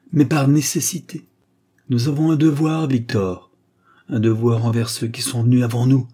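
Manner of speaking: high, loud, passionate father; emotional father. Acted. Father defending his duty to his son, impassioned. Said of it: "sa voix vibrant d'émotion".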